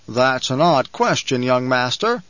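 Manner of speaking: lightly voiced banker, slowed on odd; a hint of the banker, stretching odd slowly; banker's voice. Banker speaks in his own voice.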